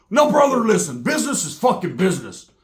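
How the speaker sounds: emphatic mock rebuff. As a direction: lay down the law as the other guy. Acting out Roach rebuffing him.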